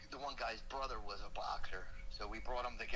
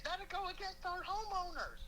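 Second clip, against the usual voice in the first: fretting wife. Retold or imitated.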